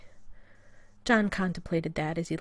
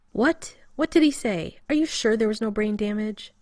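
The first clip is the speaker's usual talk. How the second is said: much higher, louder, outraged yelp; indignant outburst; 4 semitones higher, 6 dB louder than usual. Acted. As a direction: bristle at the insult, pitched up.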